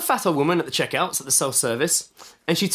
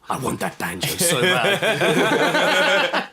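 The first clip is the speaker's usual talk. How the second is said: put-on whiny child voice; much slower than usual. Child longing at shop window.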